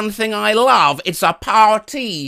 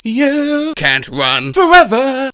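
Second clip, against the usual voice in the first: drawn-out menace; slow menacing call; 5 semitones higher, slower than usual. Acted. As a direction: stalk him slowly with the words. Hunting Tom Hanks.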